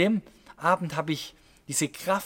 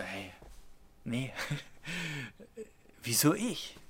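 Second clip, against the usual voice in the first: put-on hesitant boy's protest; 2 semitones lower, 10 dB quieter than usual. Boy inwardly balking at the task.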